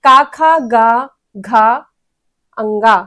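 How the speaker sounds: का, खा, गा, घा, अंगा each said apart from the throat; clear throat sounds. Shown as a demonstration. Teacher lists the का वर्ग sounds for students, clearly articulated. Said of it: "का वर्ग में कौन सी चीजें आती हैं".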